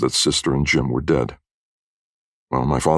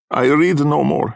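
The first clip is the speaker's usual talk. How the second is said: high, slow foreign woman's voice; resigned foreign fortune-teller; 12 semitones higher, 3 dB louder than usual. A narrator's reading. Missus Grummick stopping at the door, resigned. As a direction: give up in broken English, pitched high.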